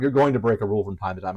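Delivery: knowing sarcastic correction. Shown as a demonstration. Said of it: "I'm being a little sarcastic".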